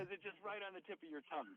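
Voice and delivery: soft unvoiced whisper. Real, not acted. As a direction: drop to a whisper. Trailing off about forgetting answers.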